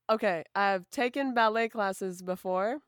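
slow, flat, deadpan reading; poker face. Real, not acted. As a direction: hide every emotion. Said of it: "I want them to hear my poker face".

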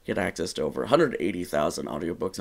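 quick upbeat radio DJ read; morning DJ voice. Shown as a demonstration. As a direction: pitch it like a morning radio host. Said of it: "I'm doing this in morning D J now".

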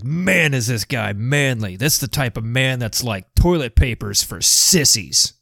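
lightly voiced tough biker; a hint of a rough biker. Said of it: "That's my biker voice".

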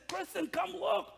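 high-pitched, eager call to someone; excited calling out. Retold or imitated. Husband excitedly calling Kristen over to see his discovery, excited calling out. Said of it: "I was so excited".

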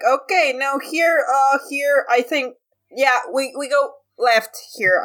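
half-hearted yell, steering the group; mild mock yelling. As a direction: call directions without real volume. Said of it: "kinda yelling directions".

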